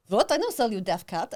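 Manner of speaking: imitated indignant Lucan seller; Lucan accent. Cat seller denying he sold a deaf cat, Lucan accent. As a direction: put on the Lucan accent, affronted. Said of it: "That's my Lucan accent".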